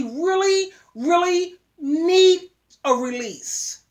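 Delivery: need a release, stretched very slowly; drawn out. Real, not acted. Advising young men, slowly drawn out. Repeats phrase, first drawn out.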